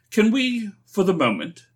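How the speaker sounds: high-pitched call across a distance. A narrator's reading. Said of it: "called Ford".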